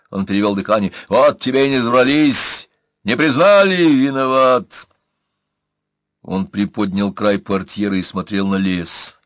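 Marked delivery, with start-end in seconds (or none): 1.1-4.9 exasperated. Acted. Angry self-reproach.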